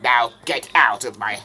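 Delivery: a villain's loud telling off; angry rant. Acted. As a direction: yell him out of your sight. Dark Bowser tells the brat off.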